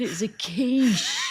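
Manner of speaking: slow, loud, laughing through the words; laughing correction. Retold or imitated. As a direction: set him right while cracking up. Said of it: "He said".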